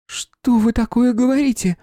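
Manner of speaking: high, loud, slow disbelief; shocked. A narrator's reading. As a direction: recoil in horror. Shocked by drugging news.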